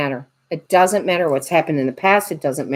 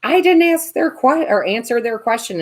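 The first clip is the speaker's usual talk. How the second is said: mock panic; 6 semitones higher than usual. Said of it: "I'm like".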